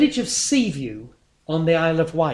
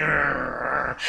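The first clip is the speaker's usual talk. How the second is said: a grudging "arr" of a miserable passenger; mock growl; 2 semitones lower than usual. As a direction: growl like a grumpy commuter. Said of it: "sit there growling".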